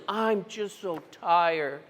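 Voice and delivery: slow, sagging sigh of a line; mild mock exhaustion, slow; weary first person. Shown as a demonstration. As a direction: sound drained and done. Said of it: "you're talking in the first person".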